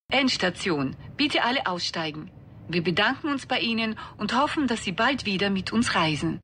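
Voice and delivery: train station announcement. Acted.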